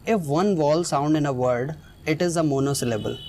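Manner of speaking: very slow, word by word, x0.4; slow dictation. Shown as a demonstration. Teacher to students, dictating the rule slowly. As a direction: spell out the rule slowly for the class.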